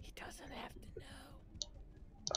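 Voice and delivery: slow, hushed whisper; mock conspiratorial whisper. Friend suggests keeping it from One Shot, slow secretive whisper. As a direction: coax softly in a drawn-out whisper.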